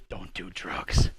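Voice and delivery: low, very slow dazed drawl; slow dopey mock voice. Mocking coworker's reply.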